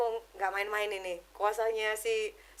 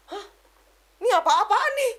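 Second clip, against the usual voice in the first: high, loud startled cry; shocked outburst; 9 semitones higher, 6 dB louder than usual. Retold or imitated. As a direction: blurt it out in sudden alarm. Sudden terrifying encounter. (teriakan kaget yang tinggi dan keras)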